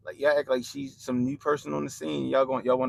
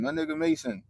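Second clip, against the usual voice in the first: much higher, delighted repeat of the name; excited shout-out; 14 semitones higher than usual. Real, not acted. Streamer hyping a viewer from his chat, excited shout-out.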